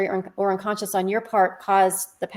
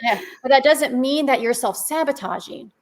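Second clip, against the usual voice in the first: laughing; 4 semitones higher than usual. Real, not acted. Laughing through the point.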